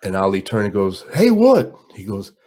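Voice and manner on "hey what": high, loud and sharp, turning around; Ali impression. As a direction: snap it out high like the champ. Ali turns back.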